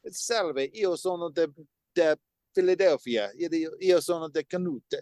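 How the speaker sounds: lilting Italian accent demo; sing-song learner's Italian. Shown as a demonstration. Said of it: "say it with an Italian accent".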